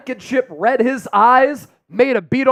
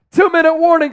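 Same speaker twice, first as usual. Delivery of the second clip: higher, hyped announcement; excited; 5 semitones higher, faster than usual. Real, not acted. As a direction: call it out pumped up. Excited hype during countdown.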